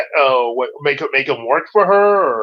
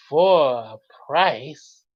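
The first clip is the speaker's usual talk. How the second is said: sly villain; 3 semitones lower, much slower than usual. Acted. Villain demands payment.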